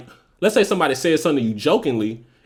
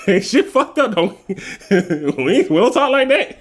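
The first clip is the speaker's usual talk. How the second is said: mock offended; 7 semitones higher than usual. Mock offended at being called bougie.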